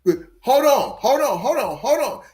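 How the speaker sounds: emphatic objection. Real, not acted.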